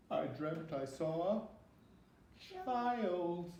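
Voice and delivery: high little frightened voice; a little monster telling his bad dream; small scared monster. Reading to a child as Billy Monster, high and scared.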